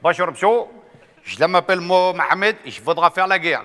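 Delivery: put-on North African accent. Mohamed greets the colonel in a light North African accent. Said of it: "il fait".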